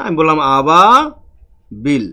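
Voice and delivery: আবাবিল said very slowly and clearly, each syllable marked; slow emphatic teacher repeat; slow stressed repeat. Shown as a demonstration. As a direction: spell out আবাবিল slowly for the class. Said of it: "কি বললাম".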